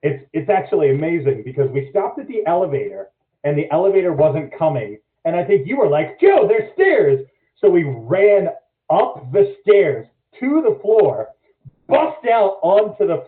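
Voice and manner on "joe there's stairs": raised, drawn-out shout to a friend; urgent call. Retold or imitated. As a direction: call out a sudden discovery, higher and slower.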